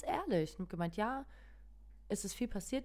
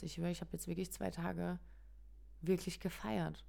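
hoarse voice; 4 dB quieter than usual. Real, not acted. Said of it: "Mein Hals ein bisschen wehtut".

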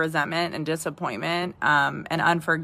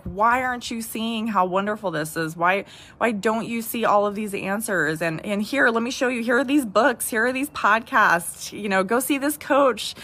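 higher, eager mock pleading; imitated urging; 4 semitones higher than usual. Wife pushing books and podcasts on husband, imitated urging. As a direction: voice an insistent wife's plea, pitch climbing.

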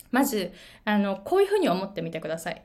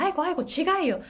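correcting friend; 8 semitones higher than usual. Retold or imitated. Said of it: "っていう風に".

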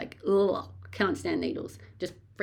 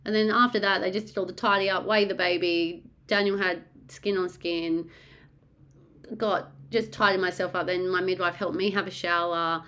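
normal talking voice

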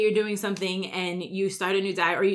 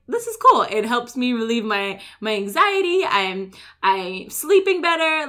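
excited praise; 2 semitones higher, 4 dB louder than usual. Retold or imitated. Imitating happy exerciser.

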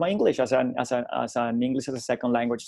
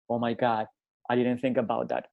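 softer, chastened retold reply; subdued realisation; 5 dB quieter than usual. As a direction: let it sink in quietly. Student's retold sudden realisation.

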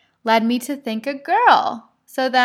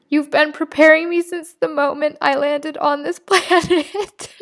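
higher, tearful reading with a catch of laughter; reading through rising tears; voice starting to break; 4 semitones higher than usual. Real, not acted. Mother reading her journal to her unborn son, voice breaking. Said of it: "Oh my gosh".

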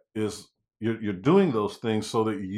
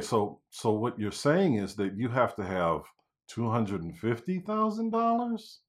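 disbelieving question; 5 dB quieter than usual. Shown as a demonstration. Agent repeats the seller's price back in stunned disbelief. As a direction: repeat the number back as if it can't be true. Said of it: "you're saying it like a question, almost as if it's just completely and totally unbelievable".

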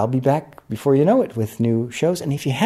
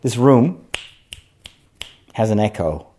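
room echo. Real, not acted. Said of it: "as you can hear".

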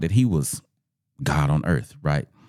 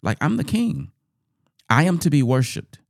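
higher, slow, self-important monarch; king questioning subjects; 6 semitones higher than usual. Acted. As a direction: confront them as an offended ruler. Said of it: "the king is questioning them".

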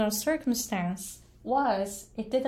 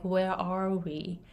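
slow correct sentence; 3 dB quieter than usual. Shown as a demonstration. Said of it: "I couldn't make a simple sentence like".

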